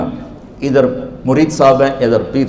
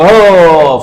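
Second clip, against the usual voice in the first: loud exultant shout of ہو; mock victory shout; joyful cry; 3 semitones higher, 5 dB louder than usual. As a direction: cheer like a student who passed. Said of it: "وہ ایک نعرہ لگائے گا".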